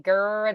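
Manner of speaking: gur said with a guttural French R at the back of the throat. Shown as a demonstration. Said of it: "the French R is more guttural".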